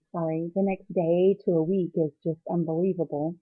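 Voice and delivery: teary, fighting back tears; choked up, pushing through; after crying. Real, not acted. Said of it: "sorry if I'm a little teary".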